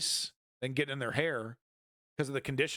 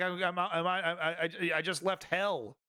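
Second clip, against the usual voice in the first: higher, halting stammer of a shaken soldier; stammering freed prisoner; 3 semitones higher than usual. Retold or imitated. Streamer voicing a crying released prisoner, halting stammer. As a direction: stutter it out like a man just freed from hell. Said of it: "this guy is crying, man, 'cause he's like".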